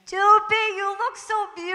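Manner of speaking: a dad's proud, loving compliment, gently imitated; imitating Dad. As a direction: voice her late dad praising her. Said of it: "I could hear him saying".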